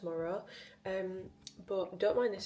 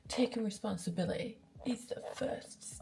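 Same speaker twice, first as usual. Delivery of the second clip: whispered; 3 semitones higher than usual. Real, not acted. Reading the Stoic entry.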